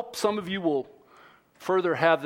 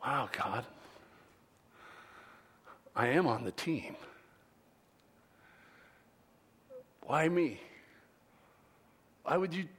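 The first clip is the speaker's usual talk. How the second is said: humble wonder; 3 semitones higher than usual. Pretend. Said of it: "think it to ourselves".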